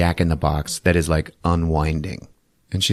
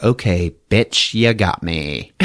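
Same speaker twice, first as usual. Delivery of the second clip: playful; slower than usual. Retold or imitated. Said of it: "she's still having fun".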